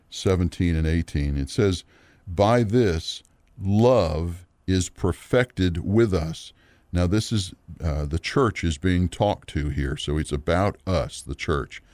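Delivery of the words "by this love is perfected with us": slow, deliberate Bible reading with pauses; scripture reading. Acted. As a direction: read the verse out slowly, phrase by phrase. Reads scripture aloud.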